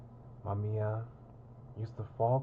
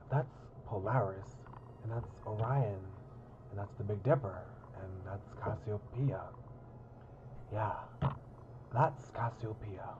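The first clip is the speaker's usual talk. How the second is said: put-on pirate accent. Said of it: "I put on, like, a pirate accent".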